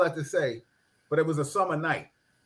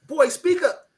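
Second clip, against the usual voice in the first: stern father; 11 semitones higher, 3 dB louder, slower than usual. Retold or imitated. Father scolding boy on phone.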